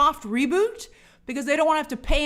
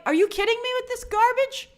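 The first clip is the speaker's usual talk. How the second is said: annoyed outburst; 10 semitones higher than usual. Retold or imitated. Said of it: "I'm like".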